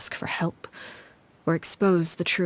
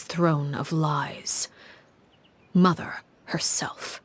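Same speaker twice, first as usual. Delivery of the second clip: slow, breathy hush on the final words; hushed slow reveal; slower than usual. Acted. Storyteller to listener, naming the mother, in a slow hush. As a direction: let it drop to a hushed, dragged-out reveal. Dark climax of told tale.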